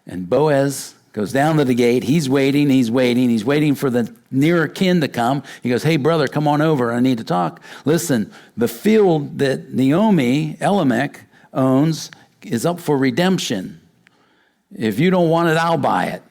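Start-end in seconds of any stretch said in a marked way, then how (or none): 5.8-16.2 eager call to a relative. Retold or imitated. Boaz calls the nearer kin over.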